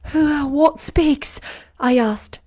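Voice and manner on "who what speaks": startled, higher and slow; frightened. A narrator's reading. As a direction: jump at a voice in the dark. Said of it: "terrified at the unexpected sound".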